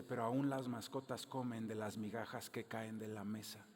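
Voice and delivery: humble plea. Retold or imitated. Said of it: "Y ella le dice".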